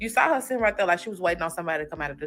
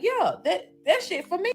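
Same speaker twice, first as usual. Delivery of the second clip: excited squeal; 10 semitones higher, 4 dB louder than usual. Retold or imitated. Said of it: "You like".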